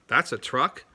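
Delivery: "That's a truck?" said with an upward lift at the end; rising question tune. Shown as a demonstration. Teacher repeating the example to show the voice going up on "truck". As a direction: let "truck" climb so it sounds like a question. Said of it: "because I inflected my voice".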